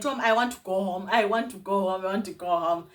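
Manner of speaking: mild mock scream, pressing the demand; retold scream. Retelling her panic at Tom's house, retold scream. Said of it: "And then I started screaming".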